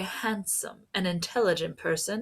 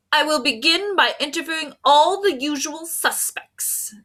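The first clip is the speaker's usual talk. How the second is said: high, bold detective voice; grand self-assured police inspector; 8 semitones higher, 4 dB louder than usual. A narrator's reading. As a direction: play the inspector, pompous and sure of himself. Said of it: "the inspector said".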